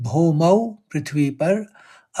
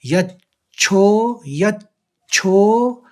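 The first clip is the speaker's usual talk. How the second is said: यच्छो drawn out very slowly with stress on च्छो; stretched stressed यच्छो; 3 semitones higher, 3 dB louder, much slower than usual. Shown as a demonstration. Teacher demonstrating the doubled च in यच्छो. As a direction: lengthen यच्छो, leaning on the double च. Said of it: "आघात लेते में य दो बार चौ का उच्चारण होगा".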